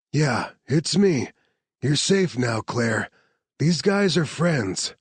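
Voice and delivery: calm her down gently; Marcus reassuring. Acted. Soldier reassuring the injured Claire, lightly voiced.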